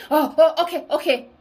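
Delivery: high, hammed-up pleading yield, slowing on sire; mock cowering surrender. Mocking his abuser's fake surrender in dreams, high mock cowering. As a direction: play the cornered abuser begging off in mock fear. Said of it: "I'm not making fun of this".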